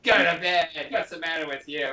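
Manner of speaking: mock stern parent; child mimicking a cross parent; strict parent. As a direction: snap at the kid like a strict parent. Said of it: "Your child says".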